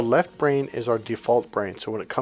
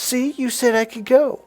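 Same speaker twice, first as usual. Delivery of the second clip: whiny mock husband; 11 semitones higher, 3 dB louder than usual. Husband insisting.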